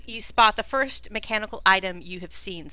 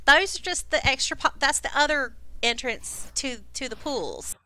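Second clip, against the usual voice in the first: higher-pitched helpful guide, quick to correct; guide character; 4 semitones higher than usual. Acted. Game master as the guide correcting visitors, helpful and higher. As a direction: voice a guide setting visitors straight. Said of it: "Cragdest says at the door".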